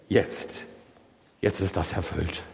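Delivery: softly breathed "jetzt", then low and soft; as old Simeon, voice sinking to a hush; a reverent whisper of fulfilment; hushed awe. Acted. Simeon holds baby Jesus.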